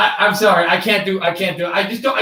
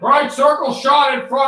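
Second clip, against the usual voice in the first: excited call; 5 semitones higher, 4 dB louder than usual. Shown as a demonstration. Shot called out.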